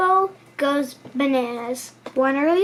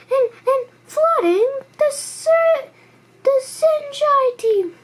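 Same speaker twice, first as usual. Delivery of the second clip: high, wailing and tearful; nearly crying with worry; high mock wail; crying giraffe; 11 semitones higher, 4 dB louder, slower than usual. A narrator's reading. Giraffe voiced, crying sound.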